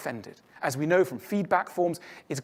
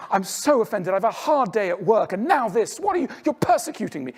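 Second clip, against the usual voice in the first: louder, whiny aggrieved rant rising higher and faster; mock offended parent; 3 semitones higher, 4 dB louder than usual. A stressed parent scolding a small child, mock-indignant whine. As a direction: ham up the wounded, tired parent. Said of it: "You don't go".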